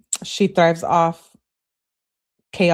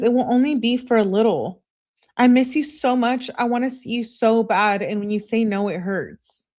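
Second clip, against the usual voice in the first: higher-pitched imitation of begging; pleading; 4 semitones higher than usual. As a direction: act out a needy texter's plea. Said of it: "I'm begging".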